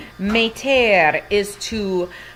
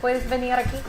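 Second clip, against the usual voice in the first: calling out; 8 semitones higher, faster than usual. Real, not acted. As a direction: call Owen from across the house.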